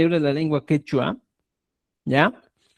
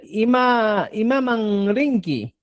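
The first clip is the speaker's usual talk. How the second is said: slowed model question; 5 semitones higher, slower than usual. Shown as a demonstration. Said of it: "Esa es la diferencia".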